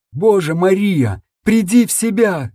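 narrated anguished shout. Acted. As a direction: cry out for her to come back. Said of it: "закричал я".

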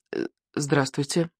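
hesitant, understated politeness; mildly timid courtesy; polite greeting. A narrator's reading. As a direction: venture a careful polite hello. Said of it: "вежливо сказал Икинг".

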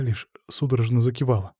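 plain reading voice

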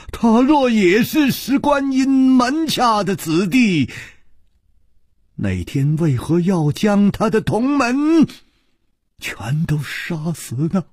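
high, stammering, building to a shout on 子弟; sharp stern voice. Acted. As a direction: demand it fiercely, rising to a yell. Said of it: "厉声说". (李玉涵厉声质问)

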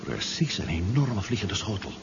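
slow, soft amazement; slow hushed astonishment; awed and hushed. Acted. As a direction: let the wonder slow you down. First sight of the saucer.

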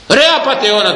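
angry accusation. Acted. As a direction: call him a crook to his face.

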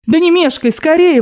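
mock-exasperated high pushing; losing her temper. Grandmother shoves the narrator to hurry, exasperated. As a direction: snap at him to hurry, rising high. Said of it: "выходила она из себя".

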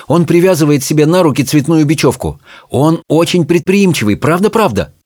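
a hint of a high character voice; earnest Charmain. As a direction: vouch eagerly for Peter.

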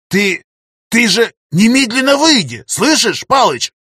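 high, loud frantic plea to get out; urgent shout. A narrator's reading. Professor to his friend, frantic loud begging to exit. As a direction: shout at him to leave the game now.

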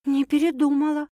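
high, steady woman's answer; serious. A narrator's reading. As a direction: answer firmly, as a settled fact. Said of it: "серьёзно ответила Саша".

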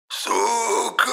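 very high eerie wail; howling ghost. A narrator's reading. Ghost howls while dragged into the doll. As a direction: howl it as you are sucked away. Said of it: "своим голосом взвыл дух".

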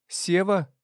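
insistent call to wake him. A narrator's reading. Someone shaking him, calling.

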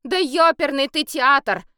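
high, loud exasperated curse; loud fed-up swear; hearty swearing. A narrator's reading. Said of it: "от души выругалась она".

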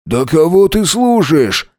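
high, drawn-out indignant retort; furious. A narrator's reading. Alex denies Max's accusation, furious and defensive. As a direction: scoff high and stretched, angrily defensive. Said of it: "Алекс зверем посмотрел на Макса".

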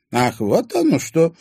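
slow, high, drawn-out realisation. A narrator's reading. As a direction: stretch the words, catching on. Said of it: "протянула".

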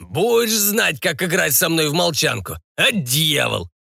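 high, gloating pirate; mock the sleeping man; rowdy pirate revenge; spiteful pirate. A narrator's reading. Vengeful drunk pirate.

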